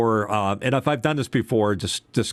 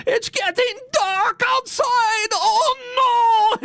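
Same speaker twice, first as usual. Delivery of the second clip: put-on shrieking, wailing old Jewish man accent, very high and loud; angry old Jewish man accent; 4 dB louder, much slower than usual. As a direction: wail in panic like an outraged old Jewish man. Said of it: "It's an angry, uh, old Jewish guy".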